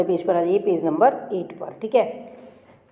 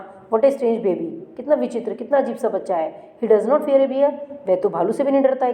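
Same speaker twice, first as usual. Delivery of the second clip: puzzled tiger; 3 semitones higher than usual. Acted. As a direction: voice the tiger's bafflement aloud. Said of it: "and thought".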